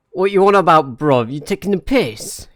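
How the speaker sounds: loud, high mock British geezer challenge, "What you on about, bruv?"; hammed-up loud London lad picking a fight; rowdy London slang. Streamer imitating a British lad to chat, loud mock London accent. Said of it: "That type of stuff".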